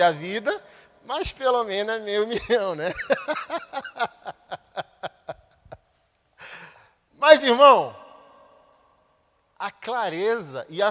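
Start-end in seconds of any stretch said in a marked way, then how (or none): 3.0-5.3 laugh. Real, not acted. Laughing at own joke. 7.2-7.9 loud call. Real, not acted. Preacher calls out to congregation.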